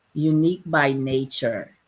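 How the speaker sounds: normal talking voice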